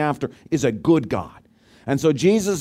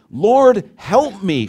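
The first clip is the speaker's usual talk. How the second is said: higher, louder desperate plea; pleading cry; 5 semitones higher, 5 dB louder, much slower than usual. A narrator's reading. Kneeling woman begging Jesus, desperate higher cry. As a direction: beg him on your knees.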